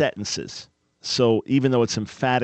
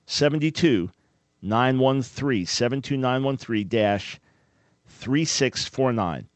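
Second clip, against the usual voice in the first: slow dictation. Shown as a demonstration. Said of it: "Zip code is".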